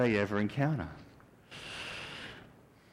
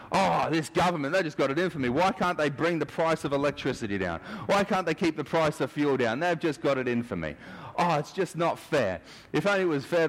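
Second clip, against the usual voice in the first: higher, whiny complaint; grumbling victim; 4 semitones higher than usual. Retold or imitated. A struggling citizen grumbling about the government, whiny. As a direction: moan that it's not fair.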